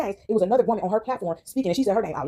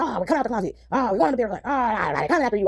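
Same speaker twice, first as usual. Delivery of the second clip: mock scare tactics. Mocking bullies who try to scare people, mock-spooky. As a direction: imitate bullies trying to frighten people. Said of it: "doing these scare tactics".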